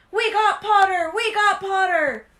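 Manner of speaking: loud, high triumphant yell. A narrator's reading. Weasley twins cheering for Harry, loud high yell. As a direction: shout it across the hall in triumph. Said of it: "the Weasley twins yelled".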